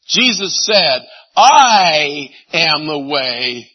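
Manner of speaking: each word slow and weighty; slow solemn proclamation. Acted. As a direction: lay it down slowly, word by word. Solemn quote of Jesus, slowed.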